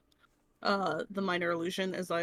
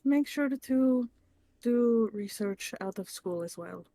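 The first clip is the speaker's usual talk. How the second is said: careful, deliberate advice with spaced phrases; measured mentor. Acted. Naya urging a kid to study outside school, measured mentor. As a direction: advise like a patient mentor, every word distinct.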